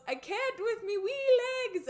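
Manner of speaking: put-on high, loud broad Scottish accent; Jock's Scottish accent. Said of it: "and Jock goes".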